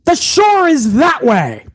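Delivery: high shouted farewell from a speedboat; mock scream. Host mocking Triple H leaving Theory at sea, shouting. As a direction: yell it back over the engine noise, mocking. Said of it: "while screaming".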